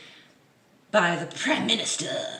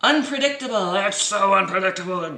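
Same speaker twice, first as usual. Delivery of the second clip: louder sarcastic repeat, stress on so; 4 dB louder than usual. Acted. Vlogger mocking the article's wording, sarcastic. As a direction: drip sarcasm on unpredictable.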